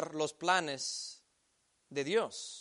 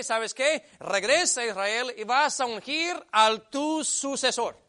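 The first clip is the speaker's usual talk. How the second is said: God chiding. Acted. God gently chides self-pitying Elías.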